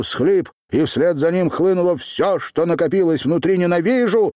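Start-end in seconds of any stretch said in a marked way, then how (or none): 3.6-4.3 high, loud furious cry of hate; shouted hatred. A narrator's reading. Girl screaming at Runa that she hates him, high and loud. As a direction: scream it as loud as you can. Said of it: "крикнула я так громко".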